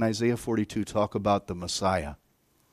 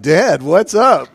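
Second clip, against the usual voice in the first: put-on puzzled kids; 6 semitones higher, 11 dB louder, much slower than usual. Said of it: "They're like".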